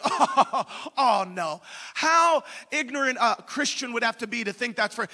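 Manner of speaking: put-on mocking disbelief; sarcastic scoffing. Radio scholars belittling Christians who quote Jeremiah, sarcastic scoffing. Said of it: "these people sarcastically laughing".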